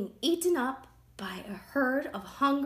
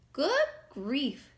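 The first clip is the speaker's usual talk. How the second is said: higher, louder storybook astonishment; dismayed exclamation; 5 semitones higher, 5 dB louder than usual. A narrator's reading. Friendly builder wolf seeing the straw house, mock dismay. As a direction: exclaim as a lightly acted, taken-aback wolf.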